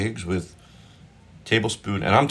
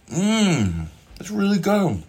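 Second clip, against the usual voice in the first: delighted; 12 semitones higher, slower than usual. Real, not acted. Tasting the food.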